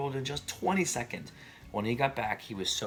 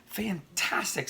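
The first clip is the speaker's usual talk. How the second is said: high, loud and slow, wide-eyed; excited praise; 11 semitones higher, 5 dB louder, slower than usual. Acted. Elizabeth praising the dragon to get him to burn more forests, gushing. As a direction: gush over him to egg him on.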